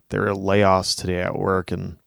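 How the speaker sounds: whiny, weaselly laid-off husband; a weak, sniveling husband whine; Weasley voice. Acted. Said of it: "You gave him such a Weasley voice".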